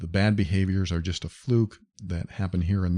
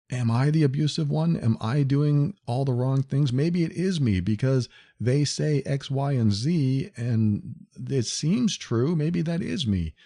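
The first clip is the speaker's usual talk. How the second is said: higher, questioning self-doubting voice; anxious victim; 6 semitones higher than usual. Retold or imitated. Clients asking if they are abusive, higher and anxious. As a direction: ask as a worried victim, pitched up. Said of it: "I've had a lot of people ask me".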